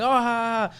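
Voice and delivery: mock laughter. Africans laughing at visitors' answer about America, mock laughter. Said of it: "then they'll laugh, like".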